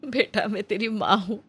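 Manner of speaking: mother's gentle coaxing voice. Acted. Mother Nandita coaxing her hungry son to eat, tender. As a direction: coax him like a caring mother who knows he's hungry.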